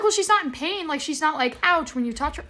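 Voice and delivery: high, insistent retort to the vet; exasperated pushback. Retold or imitated. Owner arguing with the vet about the scan, exasperated and high. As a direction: push back, she's clearly not hurting.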